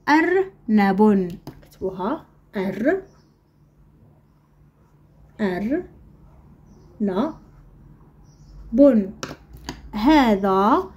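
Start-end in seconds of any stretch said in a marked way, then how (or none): 0.1-1.3 "أرنب" slowly, with fewer breaks; slow, joined-up word. Shown as a demonstration. Same word, joined more closely. 2.6-9.1 syllable-by-syllable dictation. Shown as a demonstration. Teacher dictates word for writing.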